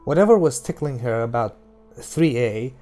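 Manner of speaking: steady audiobook reading voice over music; story narration. A narrator's reading. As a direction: read the novel aloud, even and measured. Reads The Gunslinger aloud.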